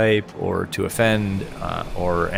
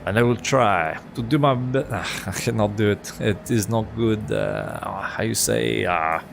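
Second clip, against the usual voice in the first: halting, hammed-up French accent; attempted French accent; slower than usual. Shown as a demonstration. Streamer tries his best French accent for chat, halting French accent. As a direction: put on a hesitant French accent. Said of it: "give us your best French accent".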